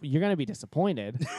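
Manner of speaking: retold protest, swooping up and down; incredulous retort. Man answering his date's bold demand, comically incredulous.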